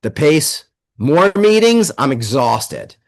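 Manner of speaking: acted complaint of a worn-out worker; exasperated overworked employee. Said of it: "This is how they talk".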